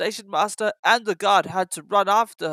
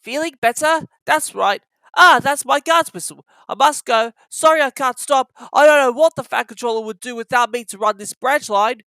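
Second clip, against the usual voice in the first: much higher, louder, friendly greeting; a kindly, bustling little engine; kindly Thomas; 6 semitones higher, 6 dB louder than usual. Acted. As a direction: greet an old friend cheerfully. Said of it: "said Thomas kindly".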